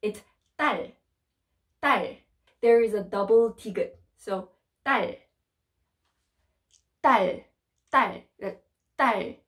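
딸 with a tense double d, crisp and short; careful pronunciation. Shown as a demonstration. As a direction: stress the tense sound in 딸. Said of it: "it's hard to pronounce".

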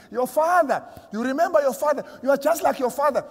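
a lightly voiced taunting devil; devil's taunt. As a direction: sneer at the sinner like the devil. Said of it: "he whispers in your ears".

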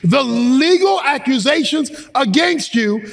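emphatic scripture preaching, phrase by phrase; fervent preacher expounding a verse; forceful preaching. Real, not acted. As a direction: drive each point home to the congregation.

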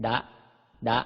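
short voiced "ดะ"; voiced Pali d. Shown as a demonstration. Teacher demonstrates Pali letters to readers, voiced "ดะ". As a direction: say "ดะ" with a Thai d, cut short. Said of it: "ออกเสียงดอเด็กเป็น".

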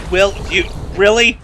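exasperated disbelief. Real, not acted. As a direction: climb from doubt to squeal. Rising exasperated repetition.

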